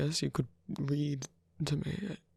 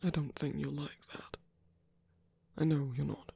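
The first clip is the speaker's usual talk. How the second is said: reassuring whisper. Acted. Reassuring partner in pain.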